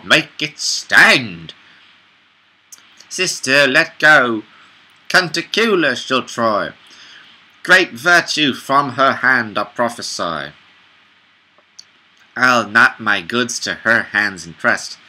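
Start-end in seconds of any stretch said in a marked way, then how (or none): 3.1-15.0 a hint of a cartoon princess. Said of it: "the one I made sound like a princess".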